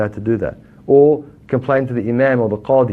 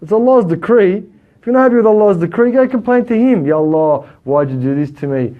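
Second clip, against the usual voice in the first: higher, louder fervent urging; pious people's exhortation; 7 semitones higher, 4 dB louder than usual. Retold or imitated. Quoting the pious to the congregation, raised fervent urging. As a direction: press them to take it to Allah. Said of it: "The pious people, they say".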